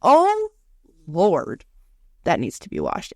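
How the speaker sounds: hammed-up shocked sigh; mock dismay. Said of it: "I'm like".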